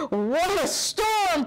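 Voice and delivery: lightly voiced chirpy bird; a hint of a chirping wren; twittering wren. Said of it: "twitters wren".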